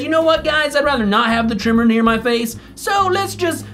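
high, polite dog declining the trim; dog excusing himself from the groomer, prissy and high; voicing the dog. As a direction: play the dog as a prissy diva. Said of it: "He said".

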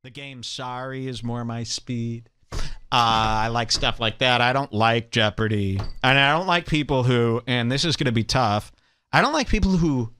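ordinary talk, nothing marked

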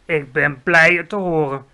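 a touch of amused smile; smiling. Acted. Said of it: "nog steeds glimlachend".

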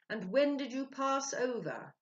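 high, loud and slow; eager question. A narrator's reading. Ludovic quizzing the spirit, high and eager. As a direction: press the spirit, thrilled. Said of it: "asked Ludovic".

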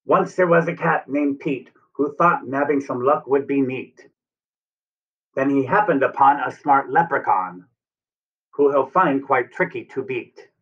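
put-on lilting rhyme for young children; storybook read-aloud. A narrator's reading. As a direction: read the verse brightly to little ones.

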